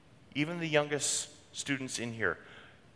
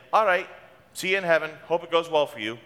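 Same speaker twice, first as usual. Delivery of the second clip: bright, breezy send-off, a lot higher and louder; breezy mock farewell; 4 semitones higher, 4 dB louder than usual. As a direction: toss off a cheery goodbye. Mock farewell to a new convert.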